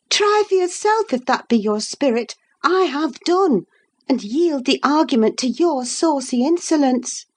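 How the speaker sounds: put-on a proud lady scolding a foolish girl; scornful young lady.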